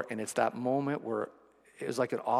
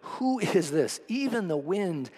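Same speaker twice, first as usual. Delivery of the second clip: slow awed fear; 3 dB louder, slower than usual. Retold or imitated. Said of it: "asked each other".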